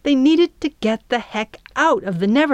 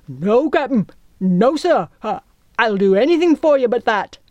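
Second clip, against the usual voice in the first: higher-pitched, anxious pirate voice; frightened refusal; 4 semitones higher, 5 dB louder than usual. A narrator's reading. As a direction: plead with the captain, hurried at the end. Cowardly pirate refusing captain's order.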